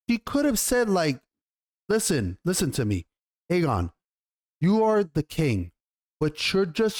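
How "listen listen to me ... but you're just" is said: patiently guiding her son, gently; gentle mother. Retold or imitated. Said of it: "she could have said it like this".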